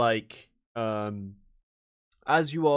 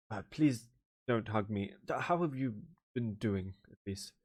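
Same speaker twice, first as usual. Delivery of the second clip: winded plea; 6 dB quieter than usual. Acted. Wizard after hug.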